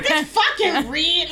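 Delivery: slow, drawn-out copy of her "red"; savoring "red" slowly in imitation; imitated "red" pronunciation. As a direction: mimic her saying "red", stretched out. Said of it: "'Cause she like".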